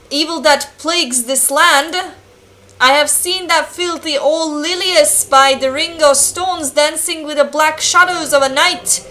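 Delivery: lightly acted old-world priest; solemn game-character read-out; village priest. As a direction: declaim it as an archaic village priest.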